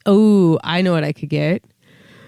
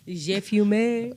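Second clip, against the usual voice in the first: put-on French accent; 2 semitones higher, much slower than usual. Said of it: "in your best French accent".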